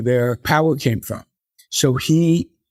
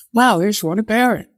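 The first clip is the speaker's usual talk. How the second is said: excited realization; 6 semitones higher than usual. Retold or imitated. Recalled thought, spotting Rona.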